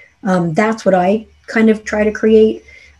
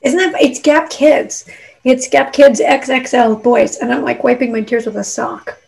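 teary and laughing; 4 semitones higher than usual. Real, not acted. Guest jokes about her kids' sweater, teary. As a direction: laugh through the tears. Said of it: "I'm weepy today".

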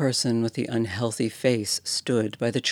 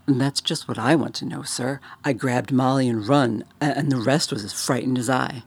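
Cockney bellhop; 2 semitones higher, 4 dB louder than usual. Acted. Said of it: "Thomas's Cockney dialect".

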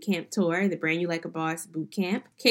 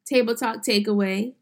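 normal talking voice

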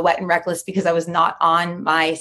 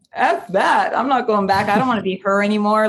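defiant refusal; 3 semitones higher than usual. Retold or imitated. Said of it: "total pirate".

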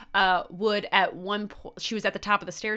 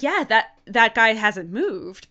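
put-on a light, slowed Irish accent for the pub owner; 5 dB louder, slower than usual. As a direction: imitate the owner's Irish lilt, drawn out. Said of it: "in a beautiful Irish accent".

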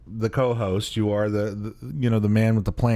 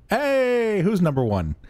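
mock hype; 9 semitones higher, slower than usual. Hamming for the camera.

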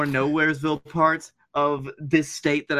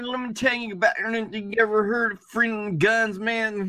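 higher-pitched mock Southern slur; imitated Southern mumble; 5 semitones higher than usual. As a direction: run it together in a Southern accent. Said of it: "they are speaking a different language".

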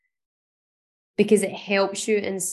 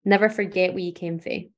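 put-on Scottish accent. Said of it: "in a very Scottish accent".

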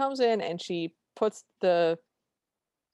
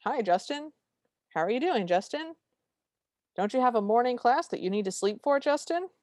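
sing-song scolding, pitched higher and rising on each Justin; mocking scold; 5 semitones higher than usual. Retelling how he scolds Cinder, mock sing-song scolding. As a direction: tease her like a nagging parent, climbing higher each time. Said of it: "he scolds her for".

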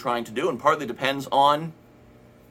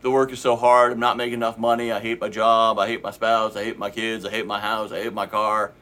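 louder grumbling at first, sinking into a lower moan; complaining whine; 3 semitones lower, 3 dB louder than usual. Retold or imitated. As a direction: moan about everything in life. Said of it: "if you're like".

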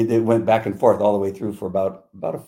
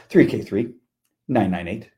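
matter-of-fact, composed police radio report; calm radio call; 3 dB louder than usual. Retold or imitated. Officer radioing in a shooting, calm. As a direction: report it evenly, without any alarm. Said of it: "you said it so calmly".

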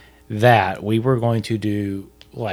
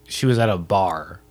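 sarcastic; 3 semitones lower than usual. Real, not acted. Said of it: "I'm being sarcastic".

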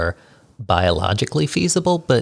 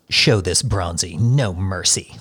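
creepy voice. Acted. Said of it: "That was a nice, creepy voice".

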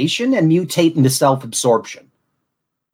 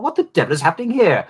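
posh accent; 4 semitones higher, faster than usual. Shown as a demonstration. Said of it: "between Niles Crane and Sheldon Cooper".

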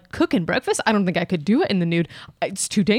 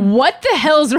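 laughing, half-shouted question; laughing disbelief; 6 semitones higher, 4 dB louder, slower than usual. Real, not acted. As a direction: blurt it out through a laugh. Incredulous at partner's answer.

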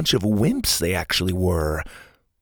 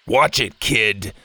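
growling threat; slower than usual. Acted. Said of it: "Kirby growled".

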